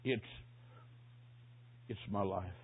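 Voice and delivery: low, faint, stammering struggle; hoarse dying whisper. Retold or imitated. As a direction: imitate a dying man forcing words out with long gaps. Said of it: "Then a hoarse whisper".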